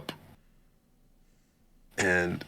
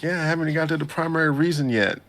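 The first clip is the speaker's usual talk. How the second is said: fast, higher mock Suzune; 8 semitones higher, much faster than usual. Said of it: "Suzune was like".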